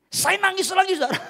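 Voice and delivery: laughs through the words, voice lifting up; a real chuckle at his own tears; laughing while telling. Real, not acted. Retelling crying, laughing at himself. (sambil tertawa geli)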